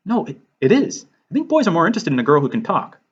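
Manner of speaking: mildly flustered, tripping over the start; nervous Willow. Acted. Girl insisting to her friend it is that bad, nervous. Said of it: "Willow is more nervous".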